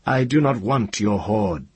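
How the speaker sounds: high, ringing refusal; defiant young wizard. A narrator's reading. Ged defiantly answers the dragon.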